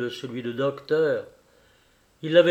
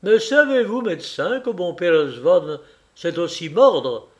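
much higher, louder, voice trembling; trembling threat; 5 semitones higher, 6 dB louder than usual. A narrator's reading. Kolya threatening the doctor with his dog, trembling and loud. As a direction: threaten him, shaking with anger. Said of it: "d'une voix tremblante".

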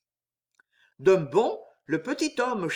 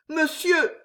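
higher, lightly voiced entreaty; pleading; 10 semitones higher than usual. A narrator's reading. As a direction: implore him as a desperate young woman, understated. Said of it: "dit Jeanne suppliante".

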